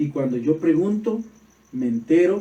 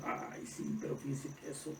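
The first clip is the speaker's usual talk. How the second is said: dismissive; 16 dB quieter than usual. Retold or imitated. Ungrateful reply imitated.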